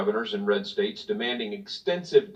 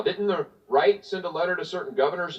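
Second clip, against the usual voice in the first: imagined objector; 7 semitones higher than usual. Pretend. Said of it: "I can hear it now".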